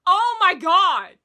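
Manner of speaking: high, loud, slow exclamation; overwhelmed delight. Real, not acted. Host reacts to the favourite part of the song, overwhelmed delight. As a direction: draw it out, overcome by the music.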